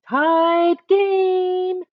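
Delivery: high loud announcer call; excited referee yell. Acted. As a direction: call out the tie. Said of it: "yelled Jake".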